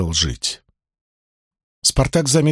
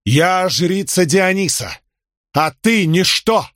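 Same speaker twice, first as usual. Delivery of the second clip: haughty priestess; 7 semitones higher, slower than usual. Acted. Priestess scorns Crixus before crowd.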